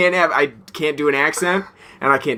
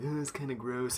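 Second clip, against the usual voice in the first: quiet mock disgust; 17 dB quieter than usual. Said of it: "he was like".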